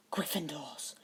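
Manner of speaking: soft exasperated mutter under breath. A narrator's reading. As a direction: grumble at the Gryffindors, fed up. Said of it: "Harry muttered".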